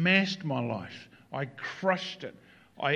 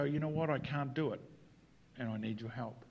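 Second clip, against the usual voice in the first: humble plea; 3 semitones lower, 8 dB quieter than usual. Retold or imitated. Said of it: "you're willing to go".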